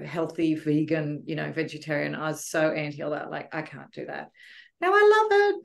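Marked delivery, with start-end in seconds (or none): 4.8-5.6 much higher and louder burst; excited. Real, not acted. Excitedly telling her host how she now loves healthy food. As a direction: exclaim it with delight, pitch jumping up. Contrast with former dislike.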